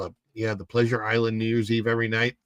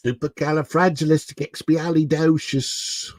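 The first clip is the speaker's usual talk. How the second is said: attempted Cockney accent; 3 semitones higher than usual. Shown as a demonstration. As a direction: try out a playful Cockney accent. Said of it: "how would I do a Cockney accent".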